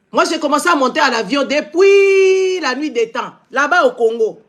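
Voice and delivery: ranting shout at critics. Real, not acted. Vlogger shouting back at his online critics. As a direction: yell it out in indignation.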